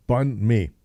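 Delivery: "Banh mi" with the n sounded; pronunciation attempt. Shown as a demonstration. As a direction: say "Banh mi" as two separate words, keeping the n. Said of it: "we're not discussing pronunciation".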